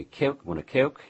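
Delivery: high-pitched imitation, Cockney-like Baltimore vowels; Baltimore accent. Friend showing how Baltimoreans offer a drink, Baltimore accent. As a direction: twist the O in Coke like a Baltimore local. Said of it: "It almost sounds Cockney".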